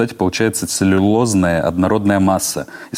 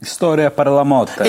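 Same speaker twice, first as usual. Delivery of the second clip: mock Italian accent; 6 semitones higher, slower than usual. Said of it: "mocking Italian phrase".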